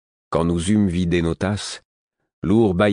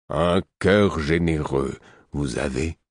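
put-on slow old hermit; slower than usual. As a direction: savour each word slowly. Host speaks slowly.

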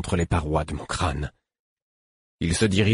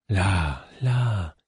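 soothing. A narrator's reading. Fool laying his exhausted patient on his back, soothing. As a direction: settle them down gently.

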